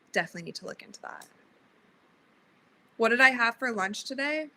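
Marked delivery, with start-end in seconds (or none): 0.1-1.3 softer and fast, repeated under the breath; a quick note to yourself, almost aside; muttered to self. Real, not acted. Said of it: "I definitely need to look into that".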